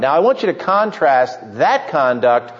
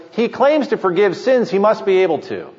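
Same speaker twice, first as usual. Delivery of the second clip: higher, wondering rise on "He claims to forgive sins"; open-minded conclusion; 5 semitones higher than usual. Retold or imitated. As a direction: voice it as a willing believer, not a critic. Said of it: "The first answer, A".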